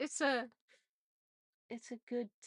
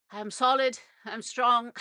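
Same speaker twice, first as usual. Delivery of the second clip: slightly raised, louder self-affirmation; firm affirmation; 3 semitones higher, 7 dB louder than usual. Shown as a demonstration. Showing how to anchor emotions with NLP, firm and loud.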